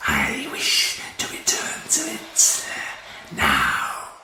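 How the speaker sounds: slow harsh alien whisper. A narrator's reading. Martian warlord questioning his prisoner, harsh whisper. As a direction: rasp it without voice. Ice Warrior voice continues.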